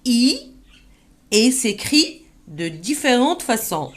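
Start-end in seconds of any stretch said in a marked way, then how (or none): 0.0-0.5 a clear, isolated I; teacher models the sound I; model vowel I. Shown as a demonstration. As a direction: say the bare I sound. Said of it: "se prononce".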